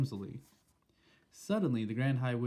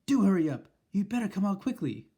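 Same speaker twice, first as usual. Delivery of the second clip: high, loud call from outside; shouted; 8 semitones higher, 6 dB louder than usual. Acted. Grandmother calling from the balcony, high and loud. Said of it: "it shouted".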